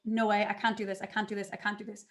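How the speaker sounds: mock panic that dies away to almost nothing; panicked refusal. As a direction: start rattled and sink to a near-silent plea. Retelling freezing at the whiteboard.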